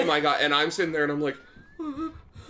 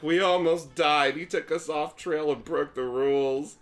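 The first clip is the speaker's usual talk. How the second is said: indignant tattling; 3 semitones higher, 4 dB louder than usual. Retold or imitated. Child reporting to mom, retold.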